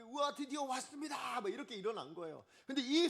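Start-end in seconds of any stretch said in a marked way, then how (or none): 0.0-1.4 high-pitched jubilant exclamation; excited crowd cry. Acted. Preacher voicing Lystrans who think their gods have arrived, excited.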